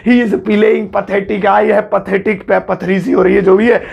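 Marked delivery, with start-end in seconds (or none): 0.1-1.5 very slow and clear; slow example. Shown as a demonstration. Teacher showing the new word to students, very slowly. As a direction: lay each word out for the class. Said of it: "पैथेटिक use कर लेना".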